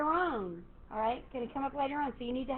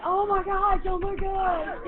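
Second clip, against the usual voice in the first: imitating panicked students, higher and louder; mock panic; 6 semitones higher, 7 dB louder, slower than usual. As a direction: act out students' panic over the countdown. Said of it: "a lot of people just went".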